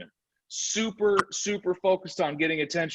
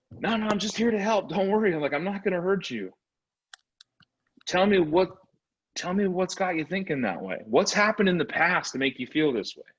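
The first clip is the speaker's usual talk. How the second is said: higher, gently reassuring salesperson; friendly reassuring; 5 semitones higher than usual. Pretend. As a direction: coax a scared client, lightly played. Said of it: "that same Labrador mentality".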